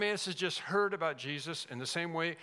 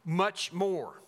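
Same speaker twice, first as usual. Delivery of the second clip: MUCH MORE, both words punched firmly; emphatic; 4 dB louder than usual. Acted. Preacher quoting verse, "Much more" said emphatically. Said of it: "That's an emphatic statement".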